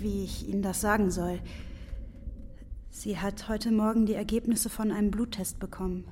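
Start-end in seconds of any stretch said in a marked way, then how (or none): 2.9-6.0 whispered bad news, voice lowered; hushed whisper. Porter whispering the grim news to Fridolin. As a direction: breathe the news out gently, unvoiced. Breaking news of blood test.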